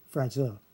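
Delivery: "Fragile" as fra-juh-luh, sounded out; syllable demo. Shown as a demonstration. Teacher showing the syllable with the L, sounding it out. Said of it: "be pronounced li there".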